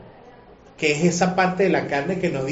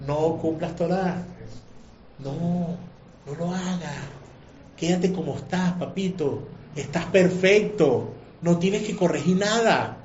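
evil inclination's voice; 3 dB quieter, slower than usual. Acted. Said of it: "esa inclinación al mal te está gritando".

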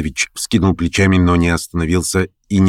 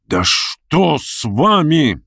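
exclamation; 6 semitones higher, much slower than usual. A narrator's reading. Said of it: "вскричал Ставрогин".

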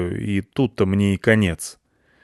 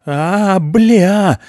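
high loud startled cry; panicked yelp; 10 semitones higher, 6 dB louder than usual. A narrator's reading. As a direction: yelp in sudden fright. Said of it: "негероически завопил я".

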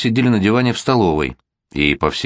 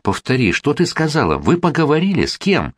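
high-pitched outraged questions, no real shouting; roaring; 7 semitones higher than usual. A narrator's reading. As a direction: demand it in acted outrage, pitch leaping up. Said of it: "заревел он". (возмущённо, на высоких нотах)

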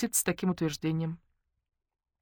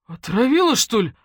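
gasping alarm; 7 semitones higher, 8 dB louder than usual. Acted. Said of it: "ахнул Матвей".

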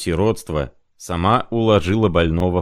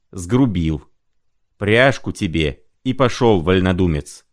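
somewhat louder agitated protest; agitated arguing; 2 semitones higher, 3 dB louder than usual. Acted. Prokharchin arguing back at Zimoveykin, a touch heated. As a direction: insist on it, a little heated.

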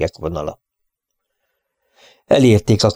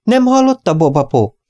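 shouting again; 11 semitones higher than usual. Acted. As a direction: make him hear you this time. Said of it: "kiáltotta újra Molly".

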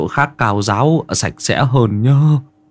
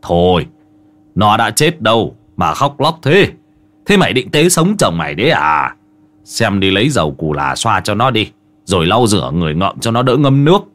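mildly irritated uncle telling someone off; understated snappish rebuke; gruff scolding. Acted. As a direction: scold with a touch of impatience. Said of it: "Ông gắt".

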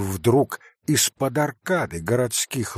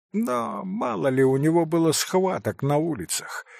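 ordinary delivery, nothing marked

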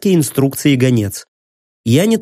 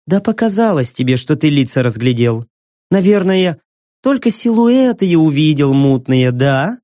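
pressing. Acted. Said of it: "надавила Кассандра".

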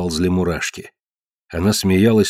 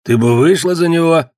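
raised, threatening beast-man; menacing brute; 8 semitones higher, 4 dB louder than usual. Acted. Ned to his wife before striking her, menacing. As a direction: loom over her with the question.

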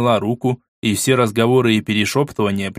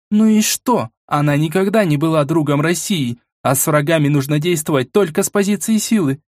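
higher, hard defiant woman; 5 semitones higher than usual. Acted. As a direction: snap back defiantly. Vasilisa voiced, defiant.

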